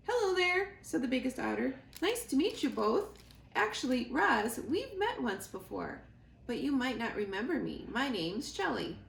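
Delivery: bright, chatty otter; lightly voiced cheerful otter; friendly otter voice.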